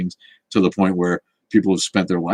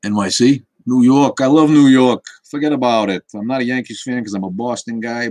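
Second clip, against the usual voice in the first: loud, higher New York accent, forget about it style; 4 semitones higher, 5 dB louder than usual. Shown as a demonstration. Streamer shows chat his New York accent, loud and higher. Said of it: "it's been a long time since I did different accents".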